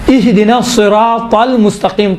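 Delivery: الصراط المستقیم recited with a heavy, full T; careful Quran recitation, heavy ط in الصراط; heavy emphatic T. Shown as a demonstration. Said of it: "تل دیکھیں، تل نہیں ہے".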